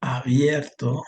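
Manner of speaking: drawn out, word by word; slow dictation. Shown as a demonstration. Teacher to student, giving a word slowly. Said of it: "si yo pongo".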